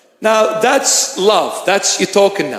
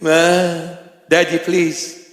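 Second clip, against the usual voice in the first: put-on childlike plea; 3 semitones lower, much slower than usual. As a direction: beg like a small child to his father. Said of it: "I'm a baby".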